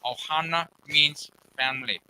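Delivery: slow cartoon-film catchphrase impression; slow, put-on character voice; movie character impression. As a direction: imitate the film line, drawn out in a put-on voice. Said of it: "they did an impression on camera".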